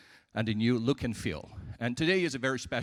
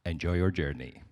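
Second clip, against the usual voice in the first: over the intercom; 3 semitones lower than usual. Acted. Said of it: "This is your captain speaking".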